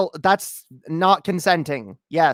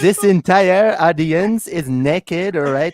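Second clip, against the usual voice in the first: slow seductive voice; sexy voice; slower than usual. Pretend. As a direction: lay on the sexy voice slowly. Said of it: "due to my sexy voice".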